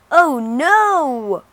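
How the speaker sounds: loud, high gasp of alarm; sudden frightened exclamation; alarmed cry. A narrator's reading. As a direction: blurt it out in shock. Narrator exclaims at dragon.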